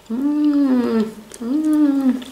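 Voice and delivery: chewing while humming; closed-mouth mm sounds; mouth full. Real, not acted. Seen 1: Bites sausage at -1.0, then chews with closed, full mouth.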